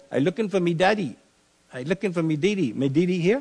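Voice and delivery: put-on high, quick Eleutheran Bahamian dialect of a small boy; a little boy at the door in broad Bahamian accent; Bahamian island accent. Young Frank at a neighbor's door asking for his daddy, Bahamian accent. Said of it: "Frank went into that accent over there".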